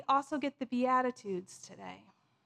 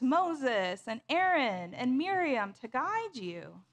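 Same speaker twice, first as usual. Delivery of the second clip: understated reproachful lament. Acted. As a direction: mourn over it as God addressing the people. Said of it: "God begins with this lament".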